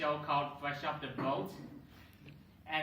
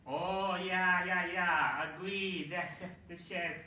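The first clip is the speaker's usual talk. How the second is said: mock Spanish accent, a little higher; 4 semitones higher, slower than usual. Comedian playing the Spanish speaker agreeing about the chair, Spanish accent. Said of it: "The Spanish goes".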